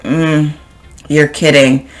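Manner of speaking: put-on sarcastic like a teenager. Shown as a demonstration. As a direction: roll your eyes as you say it. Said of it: "much more sarcastic".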